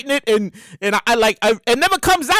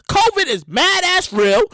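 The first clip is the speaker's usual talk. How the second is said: slow, higher-pitched Brooklyn emphasis; 4 semitones higher, slower than usual. Shown as a demonstration. Comic warning that covid is serious, Brooklyn voice. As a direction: stretch it out in a Brooklyn accent. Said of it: "that's my Brooklyn voice".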